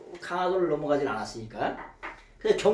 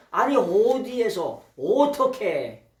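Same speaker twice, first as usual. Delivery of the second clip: 어이없는 사마리아 여자; 4 semitones higher, 4 dB louder, slower than usual. Retold or imitated. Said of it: "이 여자도 지금".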